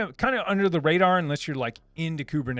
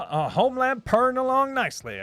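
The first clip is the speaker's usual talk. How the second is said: a hint of a Southern accent; 8 semitones higher, 3 dB louder than usual. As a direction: read it like a laid-back Southerner. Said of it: "I'm speaking with a southern accent".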